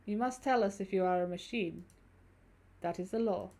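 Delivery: lightly voiced German-accented stranger; measured German-accented speech. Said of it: "if I do that accent".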